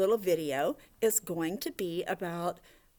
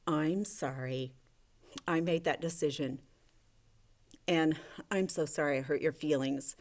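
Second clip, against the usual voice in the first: lower, gently modelled apology; a mild, earnest sorry; sincere apology; 4 semitones lower, 3 dB quieter than usual. Acted. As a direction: model saying sorry softly and honestly. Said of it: "you needed to be honest with Penelope".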